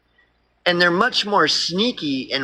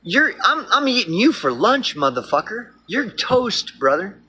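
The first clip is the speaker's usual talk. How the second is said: blunt wolf; 4 semitones higher than usual. Retold or imitated. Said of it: "is gonna look at you and be like".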